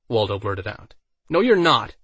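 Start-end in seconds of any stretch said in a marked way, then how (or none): 1.3-2.0 hiss. A narrator's reading. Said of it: "Alice hissed".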